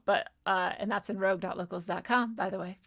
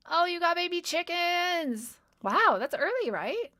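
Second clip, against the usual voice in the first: high, delighted squeal at the chicks; delighted cooing; 10 semitones higher, 4 dB louder, slower than usual. Real, not acted. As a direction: coo at the little chickens. Cooing over the baby chickens.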